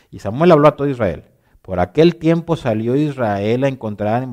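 quick, forceful Bible reading; hurried reading. Real, not acted. Preacher racing the clock through a passage, hurried. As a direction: read scripture out fast and loud. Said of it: "lo voy a leer lo más rápido posible".

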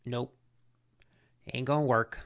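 low, quiet deadpan impression; understated, unimpressed villain quote. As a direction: turn it down with no feeling. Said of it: "Dude, he just so deadpan".

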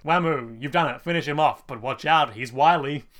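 loud urging. Retold or imitated. Kaz urging Wamu on.

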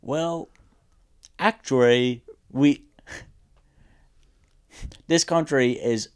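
halting, badly faked Chinese accent on an Obama speech. Co-host attempting Chinese Obama on request, shaky fake Chinese accent. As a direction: attempt a Chinese Obama, pausing between phrases. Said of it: "Do Chinese Obama".

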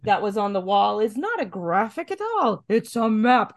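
lightly hammed-up crazed boasting, amused; Wyndham Earl. Host recapping a villain showing off, mock maniacal.

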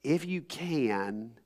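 gentle and slow, softly questioning; slow, tender reassurance. Retold or imitated. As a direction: say it kindly, like easing a frightened father. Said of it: "with all the tenderness and compassion".

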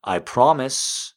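slow, high frustrated cry-out. Acted. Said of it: "she cries out in frustration".

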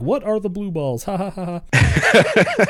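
high giggly kid imitation; high question into exaggerated ha-has; mock juvenile laughing. Schoolkid laughing at blue balls joke, mock giggling. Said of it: "laughing at blue ball joke".

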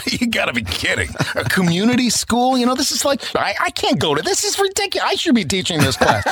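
high-pitched mock indignation; incredulous protest. Son to mom about community class, high incredulous protest. Acting out protest to his mother.

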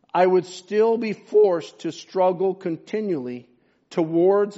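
slow, weighty quotation read from the pulpit; solemn reading. Acted. Preacher reads Luther's confession to his congregation, solemn and measured. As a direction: read it out deliberately, leaning on key phrases.

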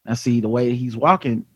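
low, mumbly tough-cop voice; hushed low cop scanning the street; Steven Seagal impression. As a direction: drop the pitch way down like a self-serious lawman. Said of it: "Steven is always the one to be like".

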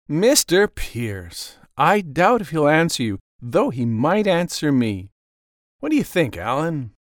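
smooth gentleman voice. Acted. Mister White character voice.

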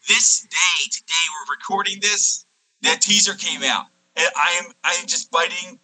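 distorted garbled audio; choppy warped line; alien voice. Real, not acted. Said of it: "I know I sound like an alien".

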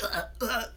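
high, quiet imitated gagging; short forced retch noises, acted out; mock retching. Friend retelling trying to puke in his bathroom, mock retching. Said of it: "trying to make myself puke".

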